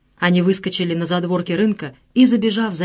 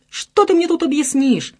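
a touch of indignant outcry, pitched higher; 9 semitones higher, 3 dB louder than usual. A narrator's reading. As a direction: throw the question back at him, indignant. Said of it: "продолжал возмущаться друг".

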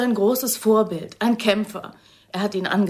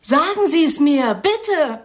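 desperate plea; 7 semitones higher, 5 dB louder, slower than usual. Acted. Desperate plea for news of lover.

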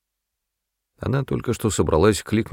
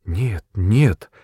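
plain reading voice

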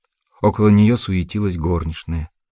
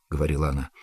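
usual speaking voice

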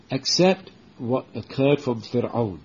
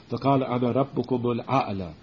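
Quran recitation; much faster than usual. Acted. Teacher recites the Quranic ayah.

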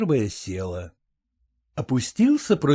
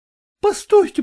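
ordinary delivery

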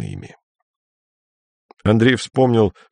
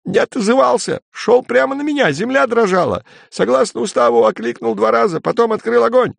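frantic report; 12 semitones higher than usual. Acted. Panicked soldier reporting.

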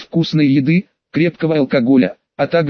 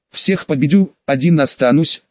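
pompous. Acted. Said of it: "пафосно проговорил я".

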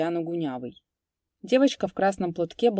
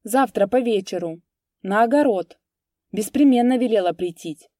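put-on higher, loud childish insistence; little girl; 4 semitones higher, 7 dB louder than usual. Little girl repeating the errand, childlike.

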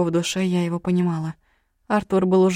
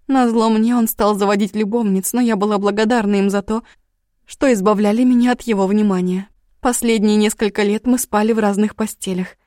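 loud tearful rush of words, pitched up; crying; 3 semitones higher, 4 dB louder than usual. Acted. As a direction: sob it out in a rush. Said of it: "Я рыдала".

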